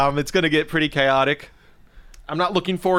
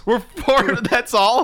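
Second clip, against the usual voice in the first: surprised; 8 semitones higher, 5 dB louder, much slower than usual. Real, not acted. Surprised at only four minutes.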